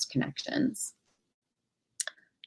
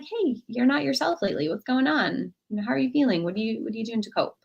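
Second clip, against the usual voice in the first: caring check-in; 4 semitones higher than usual. Shown as a demonstration. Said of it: "you might just be like".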